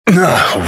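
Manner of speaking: short groan jumping in pitch; startled groan. Acted. Caught off guard by something strange, startled groan. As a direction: let out a sudden "ugh". Sudden disturbance interrupts him.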